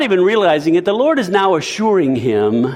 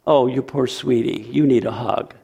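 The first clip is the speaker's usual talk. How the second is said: soft, mocking coddling tone, a bit softer; mock baby talk; 3 semitones lower, 4 dB quieter than usual. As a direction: coo it like comforting a baby, half mocking. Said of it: "the poor baby talk".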